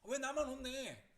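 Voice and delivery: high, loud, slow whine of injustice; aggrieved protest. Acted. Scolded sister asking why only she gets it, aggrieved. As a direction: protest loudly at being singled out. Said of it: "언니는 억울하겠죠".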